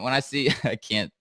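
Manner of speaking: breaking into laughter mid-sentence; giggling and unable to go on; laughing. Real, not acted. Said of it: "I can't stop laughing right now".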